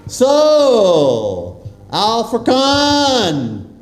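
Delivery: drawn-out, projected shout-out to the school; big stretched happy holler; calling out to crowd. Real, not acted. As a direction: hail the whole hall with gusto. Guest hails the school, excited.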